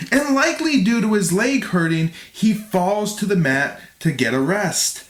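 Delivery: measured, clearly articulated read; fight recap narration. A narrator's reading. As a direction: narrate the bout like a documentary. Reads scripted fight recap.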